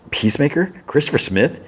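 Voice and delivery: high, questioning disbelief, lightly acted; incredulous. Other Adrian checks who the friend is, incredulous. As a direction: query the name in mock disbelief.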